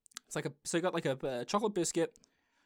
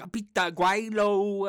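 mock camp kids; 4 semitones higher, 9 dB louder, slower than usual. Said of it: "going, like".

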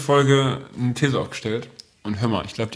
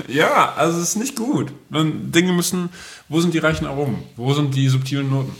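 lightly voiced food snob, raised pitch; mock gourmet critic; 4 semitones higher than usual. Host parodies a pretentious food critic on bread, lightly hammed-up. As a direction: ask where the rich aromas are, like a fussy connoisseur. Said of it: "mock gourmet critic complaint".

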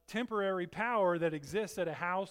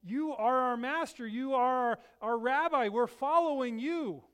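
higher, louder pleading; pleading disciples; 4 semitones higher, 5 dB louder than usual. Acted. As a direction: beg him not to go. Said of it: "They were like".

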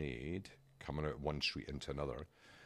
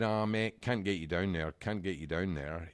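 lightly imitated Aussie supervisor; Aussie official turning someone away; Australian accent. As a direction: put on a mild Australian accent. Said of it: "Is that your Australian accent?".

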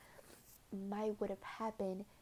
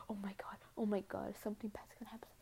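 panicked inner whisper; 6 dB quieter, much faster than usual. Retold or imitated. Anxious inner thoughts retold.

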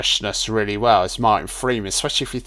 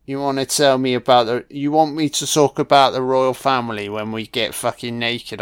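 mock English accent. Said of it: "My accent".

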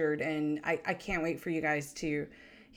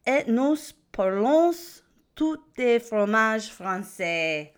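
put-on loud, bright French with an English accent, slowing at the end; excited French greeting; 5 semitones higher, 7 dB louder, slower than usual. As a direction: greet the friends in schoolbook French. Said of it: "I don't know if I pronounced a lot of those words right".

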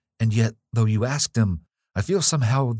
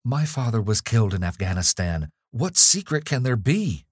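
urgent questions; 5 semitones higher than usual. Acted. Evelyn pressing the nurse for answers.

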